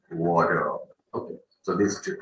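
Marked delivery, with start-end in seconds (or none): 0.1-0.8 American accent. Shown as a demonstration. Teacher repeats the American version, American accent. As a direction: give "Water" an American tapped T. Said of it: "if we talk about the American accent".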